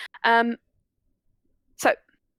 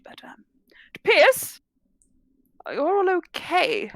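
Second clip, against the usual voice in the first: put-on very old man. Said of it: "ancient old man".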